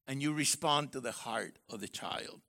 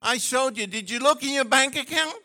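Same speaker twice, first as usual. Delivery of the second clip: indignant husband; 7 semitones higher, 8 dB louder than usual. Pretend. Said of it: "he said".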